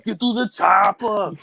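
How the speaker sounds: hammed-up movie hero impression; action-hero movie quote. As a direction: play the muscle-bound hero yelling orders. Kid imitating movie line.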